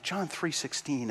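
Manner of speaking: a lightly acted frightened boy, "John three sixteen" drawn out; quiet panic. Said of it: "he says very quietly, very panicked".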